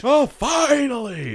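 slow, high, drawn-out cry of joy; excited shout. Real, not acted. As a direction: yell it out with delight. Excited about Rampage movie.

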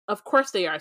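haughty, looking down the nose; snooty voice. Acted. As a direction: sniff at her like a snob. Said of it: "says the elevator in a snooty voice".

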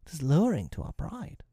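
lightly voiced pirate grumble, pitched high; a hint of offended crew; muttering pirates. A narrator's reading. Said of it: "they muttered".

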